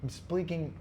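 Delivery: whispered I'm speaking; breathy whisper, no voice. Shown as a demonstration. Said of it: "restarts in whisper then full voice".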